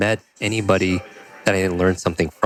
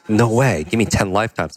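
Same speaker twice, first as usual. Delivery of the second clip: higher-pitched, mildly incredulous retort; disbelieving retort; 3 semitones higher than usual. Retold or imitated. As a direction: push back in disbelief at an impossible claim. Acted disbelief at the mentor's claim.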